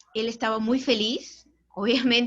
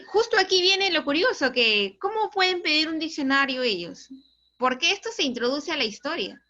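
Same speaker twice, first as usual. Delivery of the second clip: excited aside; 5 semitones higher, 5 dB louder than usual. Real, not acted. Teller excitedly points out twist.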